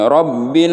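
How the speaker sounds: Rabbil dragged out past its length; wrong long hold. Shown as a demonstration. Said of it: "terlalu lama ditahan tidak boleh". (Rabbil ditahan terlalu lama)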